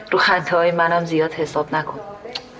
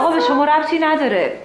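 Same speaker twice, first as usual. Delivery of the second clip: angry snap; 8 semitones higher than usual. Acted. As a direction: put the meddler in his place. Manager snapping at intruder.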